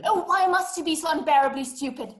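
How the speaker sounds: a touch of haughty exasperation; exasperated. Acted. Caller scolds the operator who doesn't understand, exasperated.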